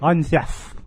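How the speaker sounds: lisped, hissing S in "Jeff"; hissy voice. Retold or imitated. Co-host parodying own intro, hissy. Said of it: "hissy voice".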